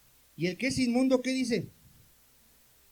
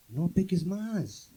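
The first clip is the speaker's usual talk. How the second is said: gentle admonition; much slower than usual. Acted. Christus mahnt den Dieb.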